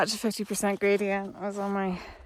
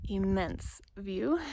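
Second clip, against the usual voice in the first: soft, slow, awed repeat; awed hush; 8 dB quieter, much slower than usual. Real, not acted. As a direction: breathe the words out in wonder. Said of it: "I'm gonna take a second".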